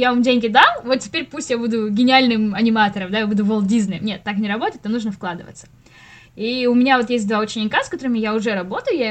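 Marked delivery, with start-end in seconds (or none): 0.0-4.0 mock entitled student. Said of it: "Вот есть же такие".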